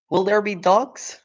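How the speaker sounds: high little cub voice, corrected word; frightened little fox; small fox voice. Acted. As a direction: cub asking again about dogs. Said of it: "he said".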